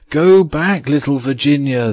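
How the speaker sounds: small tapestry figures urging her back; little huntsmen warning Virginia to turn back; tiny huntsmen crying out. A narrator's reading. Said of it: "they cried".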